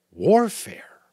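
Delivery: breathless whisper, puzzled; a startled, unvoiced whisper of a new word; whispered question. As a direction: whisper the strange word back. Jonas echoes an unknown word.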